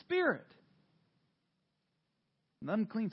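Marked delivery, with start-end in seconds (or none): 0.0-0.5 loud, slow command, higher. Acted. Preacher voicing Jesus commanding the unclean spirit, loud. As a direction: order the spirit out firmly. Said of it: "Jesus was saying to the man".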